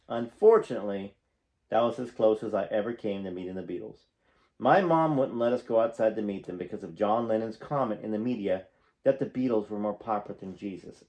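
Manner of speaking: reading a memoir aloud, projected and animated; memoir narration. A narrator's reading. Fan reading stories about a singer to viewers, animated narration. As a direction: read it out like an audiobook storyteller.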